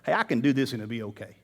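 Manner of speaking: soft, low self-assuring murmur; a hushed, lightly voiced rationalizing thought; deceived inner voice. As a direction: talk yourself into it quietly. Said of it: "some type of cloud or deception".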